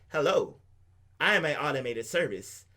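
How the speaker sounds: lightly imitated automated service greeting; mock a recorded phone system, only slightly. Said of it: "This wasn't like".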